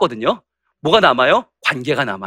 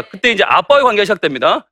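ordinary talk, nothing marked

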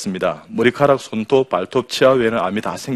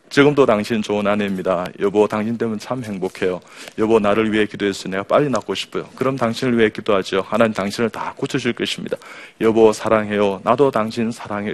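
tender model dialogue. Shown as a demonstration. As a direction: lead them gently through loving lines. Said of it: "저를 따라하세요". (부부의 다정한 대화 시범)

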